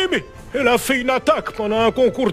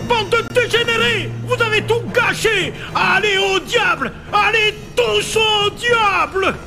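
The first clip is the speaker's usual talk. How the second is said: furious cursing shout; angry shouting; 3 semitones higher than usual. Acted. Furieux après le concours. (cris de colère)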